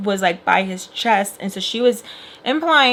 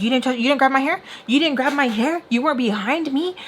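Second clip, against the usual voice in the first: higher-pitched, challenging questions; mock yell at ordinary volume; retold yelling; 5 semitones higher, faster than usual. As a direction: throw it back as an indignant retold challenge. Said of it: "Yelling, and then he was like".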